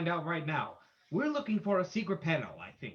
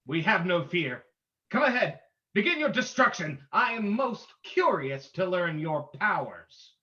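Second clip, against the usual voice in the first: defiant challenge; 6 dB louder than usual. Acted. Hero defiantly challenges the ghost.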